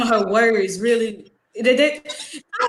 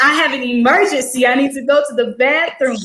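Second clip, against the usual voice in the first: slightly lifted, public announcement; mildly raised voice; 3 semitones higher than usual. Retold or imitated. Student answering a loud teacher, voice mildly raised. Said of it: "she was loud, so I was like".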